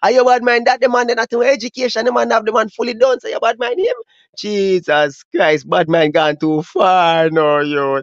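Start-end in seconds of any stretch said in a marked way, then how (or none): 4.4-8.0 slow exasperated drawl. Real, not acted. Exasperated at bad mind.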